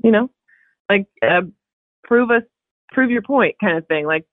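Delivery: high, hammed-up voice of the directors daring her; mock director challenge. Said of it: "I was like".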